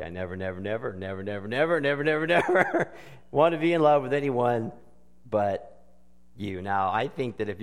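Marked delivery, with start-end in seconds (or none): 0.0-1.2 mock soft lyric. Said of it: "And then it gets silly". 1.2-6.6 laughing mock lyric. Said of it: "And then it gets silly".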